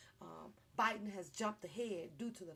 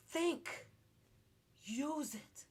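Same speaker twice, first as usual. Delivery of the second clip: urging; 6 semitones higher, 4 dB louder, much slower than usual. Real, not acted. Urging viewers to be wise.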